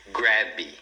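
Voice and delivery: GRAB stretched into "gra-bee"; two-syllable mispronunciation. Shown as a demonstration. Teacher warns against two syllables, wrong pronunciation. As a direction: add a Portuguese "ee" after the B of "grab". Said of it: "como se fossem duas".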